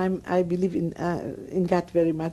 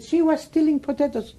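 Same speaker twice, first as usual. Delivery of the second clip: raised, higher shout of accusation; retold scream; 7 semitones higher than usual. Woman accusing her in front of the people, calling out. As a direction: call it out to the crowd, pitched up. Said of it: "And she screamed to the people".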